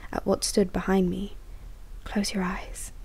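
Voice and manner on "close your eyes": a hint of a purring creature; soft purr. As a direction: croon it like a monster being gentle. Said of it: "the thing purred in my ear".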